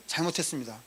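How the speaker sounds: softly acted apology; meek scolded child. Child answering a scolding parent, meek apology. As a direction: drop the volume, give in meekly. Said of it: "야단치고 혼내실 때요".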